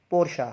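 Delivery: पोर्शा in two syllables, "por-sha"; model pronunciation. Shown as a demonstration. Teacher models the brand name, model pronunciation. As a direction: say पोर्शा ending in "sha", falling. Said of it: "और वो word है".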